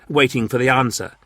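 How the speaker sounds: usual speaking voice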